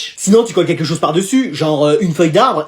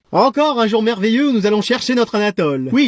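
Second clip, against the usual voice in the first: normal talking voice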